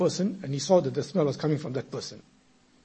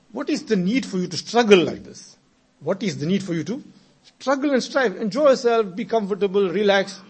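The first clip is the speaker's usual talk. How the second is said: urging youngster; 3 semitones higher than usual. Retold or imitated. Youngster urging the sheikh to relax.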